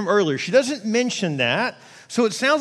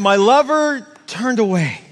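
slower, louder, laughing through it; laughing demo; 4 semitones higher, 6 dB louder than usual. Shown as a demonstration. Preacher to church, repeating the verse while laughing. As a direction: laugh at your own clumsy demo. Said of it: "I'm not good at this".

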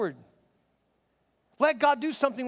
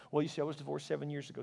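mock self-pity; 6 semitones lower, 9 dB quieter, faster than usual. Mimics someone retelling divorce.

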